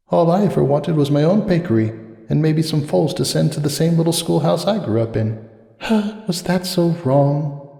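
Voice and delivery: quietly ache for the simple life; wistful inner thought. A narrator's reading. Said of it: "she thought bitterly".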